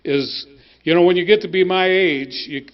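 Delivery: talking while chewing gum; words round a wad of gum. Real, not acted. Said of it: "excuse me if I'm chewing gum".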